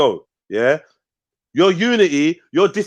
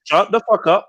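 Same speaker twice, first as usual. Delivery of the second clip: angry shout; 5 semitones higher than usual. Real, not acted. Shouting match on live call.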